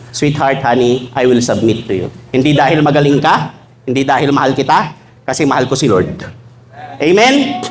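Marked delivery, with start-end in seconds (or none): 0.1-2.1 sweet wife. Retold or imitated. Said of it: "sabi mo sa mister mo".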